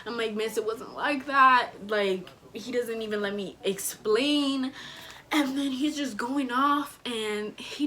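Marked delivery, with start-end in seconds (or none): 0.3-1.7 second plea louder and higher. Retold or imitated. Student pleading with her teacher, louder and higher. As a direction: repeat the plea with rising urgency.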